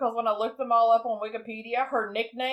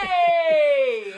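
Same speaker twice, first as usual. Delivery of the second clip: loud happy shout; excited shout; 4 semitones higher, 5 dB louder than usual. Real, not acted. Cheering her friend's movie link, excited shout.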